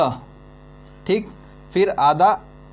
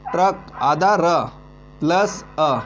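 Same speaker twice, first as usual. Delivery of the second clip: ट्रक repeated slowly and carefully; slow repeating; slower than usual. Shown as a demonstration. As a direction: spell out ट्रक slowly for students. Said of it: "ट्रक क्या होता है". (ट्रक धीरे-धीरे दोहराते हुए)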